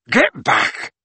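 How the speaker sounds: restrained shout of command; shouted order. A narrator's reading. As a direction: order the crowd away as Hagrid. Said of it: "shouted Hagrid".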